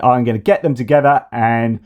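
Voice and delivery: high, silly magician gibberish; hammed-up, squeaky hocus-pocus voice; mocking Trump impression. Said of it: "how are you going to solve it?".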